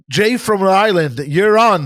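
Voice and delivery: announcing the caller like a DJ; upbeat radio host intro. Retold or imitated.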